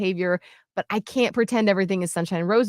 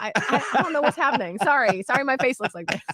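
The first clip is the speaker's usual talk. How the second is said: flustered apology; 4 semitones higher, faster than usual. Retold or imitated. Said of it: "I'm like".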